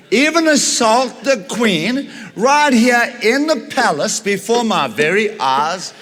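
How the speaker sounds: high, slow, loud outraged king. Acted. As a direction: hammer each word in disbelief. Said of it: "and he says".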